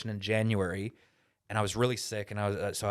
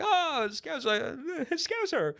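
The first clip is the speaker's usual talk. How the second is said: slow, much higher mock Scouse, drawn out with a laugh; mock Scouse accent; much slower than usual. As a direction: tease the Scouser in a stretched-out Scouse voice. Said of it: "a Scouser".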